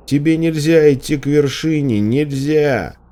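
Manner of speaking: high, insistent calling; shouted prohibition. A narrator's reading. Man shouting a warning after her.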